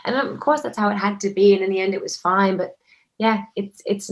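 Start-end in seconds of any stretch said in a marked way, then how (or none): 0.0-1.3 retold dismayed swearing, pitched high; internal panic. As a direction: act out a sinking inward panic. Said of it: "fly into a full internal panic".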